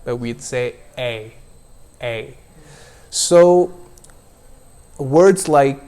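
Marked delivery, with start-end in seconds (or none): 0.0-2.4 a with a long eh and a short i; correct diphthong. Shown as a demonstration. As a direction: keep the second half of a short. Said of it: "second vowel is always shorter".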